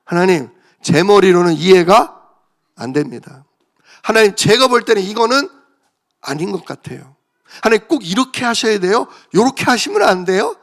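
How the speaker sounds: pleading query with a touch of grumbling; respectful but mildly aggrieved appeal; slightly complaining question. Shown as a demonstration. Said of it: "불평 살짝 섞어서".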